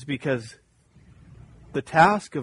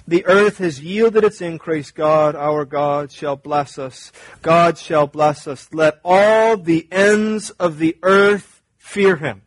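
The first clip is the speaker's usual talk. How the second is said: louder, slow, leaning on "all" and "God"; targeted emphasis; 6 dB louder, slower than usual. Shown as a demonstration. Pastor reads the psalm to the church with pointed emphasis. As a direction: press "Let all the ends of the earth" hard and slow. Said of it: "read it with a targeted emphasis".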